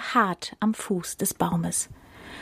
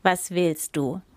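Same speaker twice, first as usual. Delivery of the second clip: growled; 4 dB quieter, slower than usual. Acted. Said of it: "knurrte dieser".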